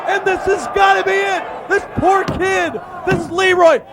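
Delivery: excited ringside play-by-play; wrestling commentator. Real, not acted. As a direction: call the match live from ringside.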